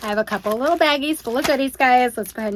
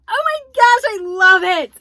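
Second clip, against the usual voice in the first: higher, louder delighted gush; thrilled gush; 10 semitones higher, 7 dB louder than usual. Real, not acted. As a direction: gush over it happily. Thrilled by the gift.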